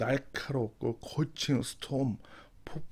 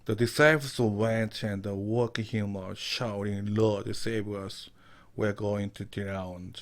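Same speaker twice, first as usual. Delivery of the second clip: slow, careful Bible reading for learners; slow verse reading; 2 semitones lower, much slower than usual. Shown as a demonstration. Teacher reading the verse slowly to students. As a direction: read each word slowly so students follow.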